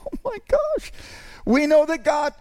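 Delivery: real amused exclamation; laughing. Real, not acted. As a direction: laugh it out in surprise. Laughs at running out of time.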